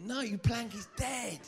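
high-pitched comic exasperation; acted-out exasperated outburst; exasperated correction. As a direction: cut off a dim follower in mock despair.

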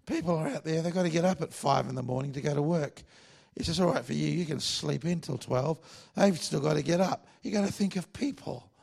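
put-on high, insistent old cowboy pastor; Clark Taylor. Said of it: "That's how he used to talk".

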